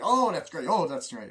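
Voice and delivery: high, loud mock enthusiasm; delighted chatter. Two best friends chilling at a sleepover, delighted chatter.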